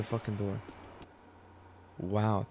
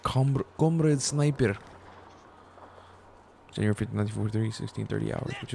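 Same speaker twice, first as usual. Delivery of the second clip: put-on Russian accent. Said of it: "Ignore the stupid Russian accent".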